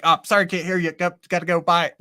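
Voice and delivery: imitating a guest dodging out; mock hurried goodbye; mock hasty excuse.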